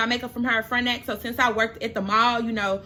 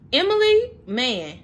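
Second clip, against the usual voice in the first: tearful call; 7 semitones higher, 4 dB louder, slower than usual. Real, not acted. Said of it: "I be about to cry".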